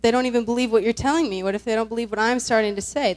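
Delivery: fast, insistent acted doubt. Moses questioning God's plan, mildly anxious doubting. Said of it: "he starts doubting".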